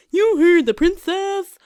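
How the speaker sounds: captain shouting orders to his men; shouted order. Acted. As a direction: bellow it at the guards. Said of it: "he shouted at his fellow guards".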